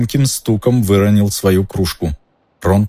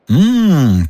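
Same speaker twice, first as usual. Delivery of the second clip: lip smack; 9 semitones higher, 4 dB louder than usual. A narrator's reading. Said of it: "причмокнул профессор Флитвик".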